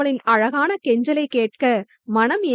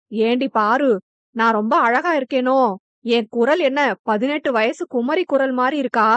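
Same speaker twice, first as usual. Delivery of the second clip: put-on coy old granny. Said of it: "என வெட்கப்பட்டபடி கேட்க".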